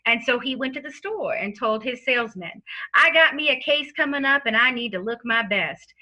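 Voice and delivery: sleazy lawyer with a fake Southern accent. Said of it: "dons a false Southern lawyer accent".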